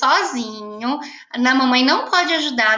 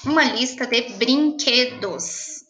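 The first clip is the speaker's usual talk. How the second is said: slow dictation; slower than usual. Shown as a demonstration. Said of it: "Hoje nós vamos fazer uma lista".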